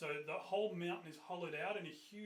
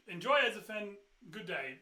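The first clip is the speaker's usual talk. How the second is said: loud, clipped-off farewell, higher; curt dismissal; 4 semitones higher, 9 dB louder than usual. Acted. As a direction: send them off loudly and coldly. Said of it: "And he goes".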